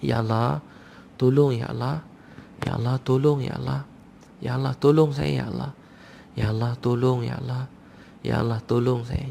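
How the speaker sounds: mild, repeated imploring prayer; understated pleading, pausing between calls; intimate plea. Acted. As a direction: call on God as if He is near. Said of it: "kita menyebut begitu rapat dengan Allah".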